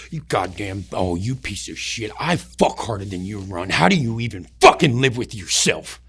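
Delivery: low mock sergeant's rant; a lightly voiced sergeant berating a straggler; imitated sergeant's yelling. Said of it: "he's yelling so loud".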